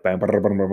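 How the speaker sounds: rattled-off run of bams; vibrating metal imitation. Storyteller mimics the sign vibrating off, juddering noise. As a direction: let it judder like metal bouncing loose. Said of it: "like, vibrating off".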